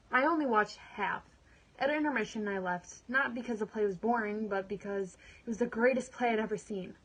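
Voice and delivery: earnest monologue, anger building to resolve; dramatic monologue. Acted. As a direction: perform it like a woman taking control of her life. Performs her dramatic monologue.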